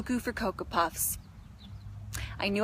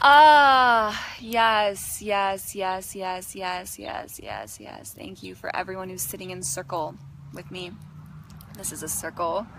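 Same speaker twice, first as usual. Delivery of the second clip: put-on Indian guru accent; 3 semitones lower than usual. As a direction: let the repeated words fade down like an Indian-accented guru. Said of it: "It is like my Indian guru side".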